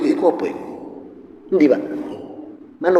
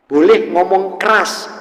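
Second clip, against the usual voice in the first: speaking loud; 5 semitones higher, 4 dB louder, slower than usual. Shown as a demonstration. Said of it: "tapi bukan kasar".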